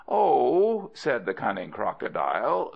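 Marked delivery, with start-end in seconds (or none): 0.1-0.9 high, loud, airy "oh"; breezy dismissal. Acted. Cunning crocodile reassuring Monkey, breezy dismissal. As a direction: wave the worry away, pitched up.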